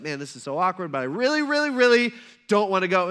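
acted reluctance, rising on the reallys; a little frustrated. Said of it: "he's probably a little frustrated".

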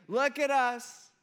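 high, loud, drawn-out whine; whiny. Acted. Israelites complaining to Moses, loudly whiny. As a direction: wail it in mock self-pity. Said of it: "in a really whiny voice".

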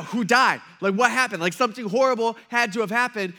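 loud, alarmed mock questions. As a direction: play up the panic at her tears. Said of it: "we're like, you know".

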